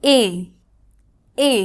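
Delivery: the sound এ said long and clear as a model; model vowel sound. Shown as a demonstration. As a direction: demonstrate the vowel এ on its own. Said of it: "উচ্চারণ হবে".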